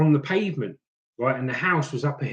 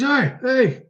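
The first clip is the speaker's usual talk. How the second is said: retold call; 10 semitones higher than usual. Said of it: "matey goes".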